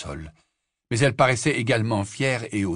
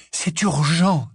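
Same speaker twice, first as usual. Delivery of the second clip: loud, fierce insistence; 6 semitones higher, 5 dB louder, much slower than usual. A narrator's reading. Harry fiercely pressing the Grey Lady, loud. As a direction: bite it out hard. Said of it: "dit-il d'une voix féroce".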